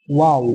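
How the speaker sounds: ওয়াও with both lips rounded; round-lipped ওয়াও. Shown as a demonstration. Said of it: "ঠোঁট দুটোকে একটু গোল করে".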